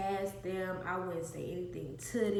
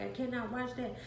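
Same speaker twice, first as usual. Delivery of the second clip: higher-pitched imitation of a frightened child; retold freaking out; 4 semitones higher than usual. Frightened child telling the babysitter, mildly freaking out. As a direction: plead as a scared kid, mildly acted. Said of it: "and I'm freaking out".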